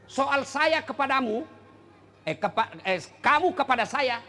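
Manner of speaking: suara lebih tinggi dan keras, berwibawa; berbicara atas nama Allah. Acted. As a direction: ucapkan seperti firman yang tegas. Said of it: "Allah seolah-olah bahasanya". (seruan berwibawa, lebih tinggi dan keras)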